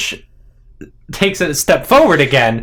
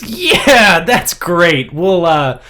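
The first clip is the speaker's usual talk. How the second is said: higher, louder nervous enthusiasm; acted uneasy cheer, pitched up; 5 semitones higher, 4 dB louder, much slower than usual. Ish nervously answering Danica's offer to join them, nervous. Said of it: "Ish laughs nervously and says".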